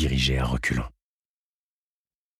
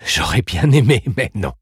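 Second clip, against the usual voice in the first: sneering snicker; 5 semitones higher, 7 dB louder than usual. Acted. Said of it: "Elle ricana".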